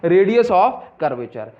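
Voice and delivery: Radius of curvature spelled out slowly; slow answer. Shown as a demonstration. Teacher answering own question, slow. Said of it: "क्या बोलूँगा".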